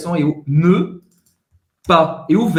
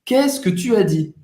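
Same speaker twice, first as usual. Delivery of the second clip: lively example question; 5 semitones higher than usual. Shown as a demonstration. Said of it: "Por exemplo".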